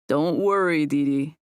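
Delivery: lightly amused, with a smile; smiling voice. A narrator's reading. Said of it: "with a smile in his voice".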